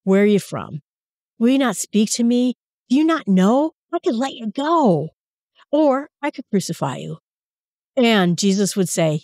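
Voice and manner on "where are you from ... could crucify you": higher, urgent pleading with a silent prisoner; pleading Pilate. Retold or imitated. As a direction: beg him to give you a reason to free him. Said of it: "Jesus is trying so hard".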